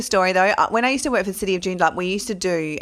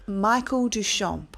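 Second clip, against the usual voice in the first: ceremony name announcement; 3 semitones higher, much slower than usual. Retold or imitated. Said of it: "so I'm like".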